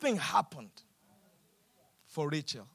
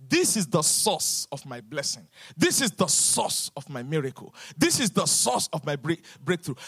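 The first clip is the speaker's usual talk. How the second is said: Rachel's inner thought; 7 semitones lower than usual. Acted. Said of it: "in her mind".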